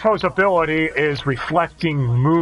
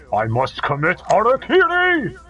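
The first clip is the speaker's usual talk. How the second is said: death cry; 8 semitones higher, 3 dB louder than usual. Retold or imitated. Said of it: "well, except for his death scream".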